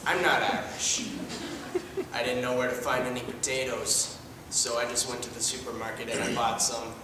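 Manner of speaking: deadpan son. Acted. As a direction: mumble it dryly. Plays a deadpan adopted son.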